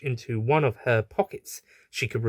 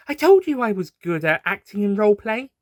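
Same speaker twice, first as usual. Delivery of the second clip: confiding aside; 9 semitones higher, 4 dB louder than usual. A narrator's reading. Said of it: "she whispers to the audience".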